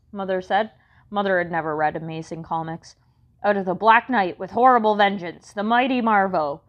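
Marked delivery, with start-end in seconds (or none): 3.4-6.6 comic-book announcer. Acted. Gladys quotes comic.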